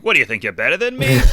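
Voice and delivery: put-on Boston accent jab at a daughter getting above herself; Boston family voice. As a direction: play a pushy Boston relative, half laughing. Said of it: "They just keep on being like".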